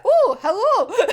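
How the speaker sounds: high, slow, laughing hello; gushing hello. Pretend. Fan greeting the character, high and swooning. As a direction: swoon a little on it.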